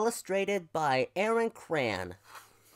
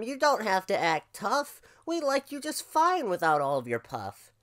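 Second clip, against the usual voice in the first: higher, kindly ram voice; reassuring ram; 6 semitones higher, 4 dB louder than usual. Acted. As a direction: gently talk a friend out of acting tough.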